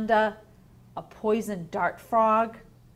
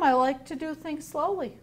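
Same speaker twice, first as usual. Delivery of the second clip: higher, relaxed sloth voice; cheerful sloth; 6 semitones higher than usual. Acted. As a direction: content and carefree. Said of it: "He said".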